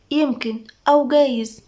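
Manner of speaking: slow, drawn-out maybes; noncommittal. Acted. Nada shrugs at talk about Fares, noncommittal. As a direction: shrug it off word by word.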